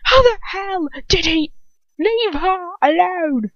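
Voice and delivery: yell. A narrator's reading. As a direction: shout to stop him. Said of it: "Ron yells".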